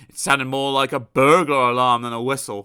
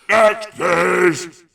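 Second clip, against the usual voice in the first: much higher, very loud call; shouting next; 7 semitones higher, 9 dB louder than usual. Acted. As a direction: dismiss him with a yell. Shouting shopkeeper.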